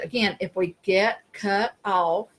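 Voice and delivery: slow, deliberately spaced delivery; talking slow. Real, not acted. Host explaining a bad connection to the other speaker, talking slow. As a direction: draw the words out for a lagging connection.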